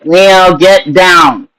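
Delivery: high sharp call to the cat; talking to a cat. Real, not acted. Calling to cat on counter.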